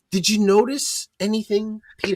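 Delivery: mock wife's question. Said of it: "She wants to know".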